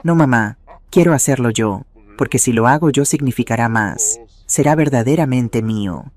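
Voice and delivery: steady, gentle refusal, a touch firmer; firm but kind. Acted. Son kindly refusing his mother's offer of help, firm but gentle. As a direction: hold your ground kindly, without raising the voice. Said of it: "Su voz era firme pero amable".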